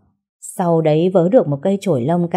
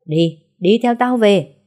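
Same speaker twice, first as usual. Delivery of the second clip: slow angry command; 4 semitones higher, 5 dB louder, slower than usual. Acted. Husband dragging wife home.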